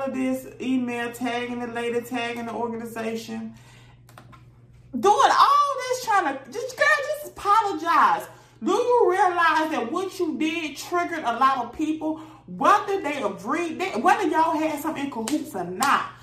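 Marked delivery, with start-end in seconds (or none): 4.9-11.2 high, exasperated plea. Real, not acted. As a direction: raise the pitch, fed up. Host exasperated at Masika.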